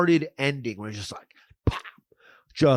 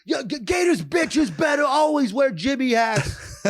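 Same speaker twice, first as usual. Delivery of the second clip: movie quote voice; 9 semitones higher than usual. Retold or imitated. Quoting movie line.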